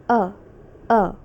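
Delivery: bare "a" vowel, said as uh with no r; British ER as uh. Shown as a demonstration. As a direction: sound out "a" as a short open uh. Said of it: "the E R pronounced as U H".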